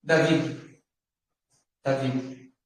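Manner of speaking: David said "da-VID", stress on the last syllable; David with a sounded final d; Hebrew pronunciation. Shown as a demonstration. Teacher showing students how Hebrew says Davi, Hebrew pronunciation of David. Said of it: "Como se fala Davi em hebraico? Assim".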